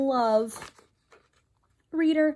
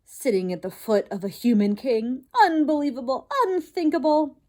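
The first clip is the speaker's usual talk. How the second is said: outraged father mouse; 3 semitones higher, 4 dB louder than usual. Acted. Father raves.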